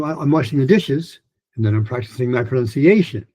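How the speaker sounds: strongest beat lands on "pronunciation", lighter one on "dishes"; sentence stress on PRONUNCIATION. Shown as a demonstration. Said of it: "Asian pronunciation is louder than dishes".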